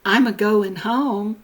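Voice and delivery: put-on older mountain people's "a-going" with an extra uh; mountain a-prefix. Quoting older Southern mountain people, a-prefixed "a-going". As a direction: put a little "uh" before going in "a-going". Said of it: "older people can still be found who will say".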